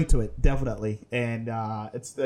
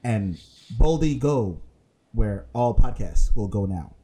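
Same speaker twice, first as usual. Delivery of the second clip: mock Star Trek captain; 5 semitones lower than usual. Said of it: "we must speak like this".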